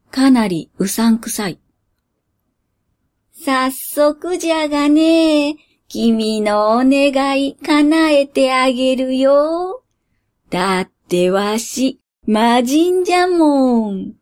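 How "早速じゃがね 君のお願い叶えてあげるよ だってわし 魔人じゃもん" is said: lightly voiced creaky old genie; slow, sly old man genie.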